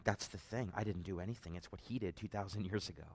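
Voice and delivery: hushed awe. Retold or imitated. Husband explaining to his wife, quietly moved. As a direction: say it softly, as if in wonder. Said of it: "I'm like".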